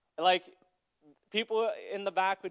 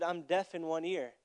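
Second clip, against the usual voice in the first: quiet, lower timid reply; shy, timid; 3 semitones lower, 6 dB quieter than usual. Retold or imitated. Shy girl telling the evangelist what's wrong, timidly. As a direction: imitate a timid girl, softly. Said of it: "very shy, very timid".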